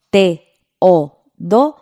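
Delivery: Teodoro drawn out very slowly with each vowel kept apart; slow syllable split. Shown as a demonstration. Teacher showing radio students the hiatus, very slowly. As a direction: stretch Teodoro so the e and o stay separate. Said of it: "Y ahí nos da un ejemplo".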